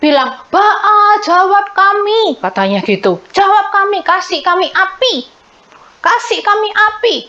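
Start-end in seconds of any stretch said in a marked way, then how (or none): 0.5-2.3 hammed-up pleading cry; mock shouted plea. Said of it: "Mereka berteriak-teriak". 3.3-7.2 higher-pitched calling out for fire; hammed-up crowd crying out; mock shouted plea. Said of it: "Tuh, mereka berteriak-teriak".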